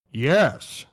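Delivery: a lightly robotic text-to-speech "Yes."; flat machine-like "Yes.", in a hint of a robot voice; TTS Rogal Dorn. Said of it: "T T S Rogel Dorn impression".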